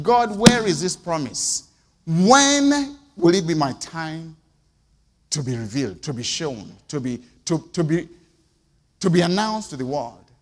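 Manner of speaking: pleading prayer. Retold or imitated. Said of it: "you are saying".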